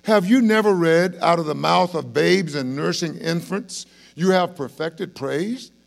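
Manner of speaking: loud, high, declaimed question; forceful start, slowing on the final words; challenging rebuke. Acted. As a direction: challenge them with a ringing quotation. Voices Jesus challenging the priests.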